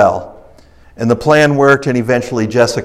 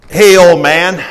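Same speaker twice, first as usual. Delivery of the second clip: lightly acted traveler calling out, raised pitch; a louder, higher hail to an old man; friendly traveler; 6 semitones higher, 5 dB louder, slower than usual. First friendly traveler calls out.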